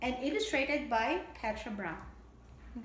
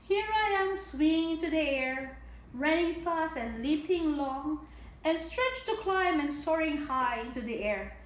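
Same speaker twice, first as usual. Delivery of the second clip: bright, sing-song storybook read; lilting picture-book reading; reading to children; 3 dB louder than usual. A narrator's reading. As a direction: read it out like storytime for little ones.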